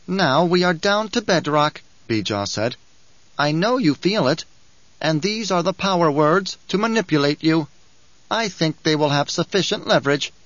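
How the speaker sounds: a sly little dwarf preaching the uses of war; sly dwarf Bijaz. Acted. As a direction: lecture like a gleeful little schemer. Bijaz gloats.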